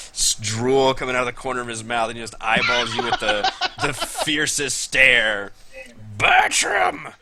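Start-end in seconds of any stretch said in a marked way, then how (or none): 6.2-7.1 put-on cranky old halfling. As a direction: shout like a wizened miser who barges in. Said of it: "wizened old halfling steps through".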